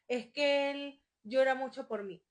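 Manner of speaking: slow, loud, pleading parent's excuse; mimicking an overprotective mother; mock whiny excuse. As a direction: drag it out like a fretful parent.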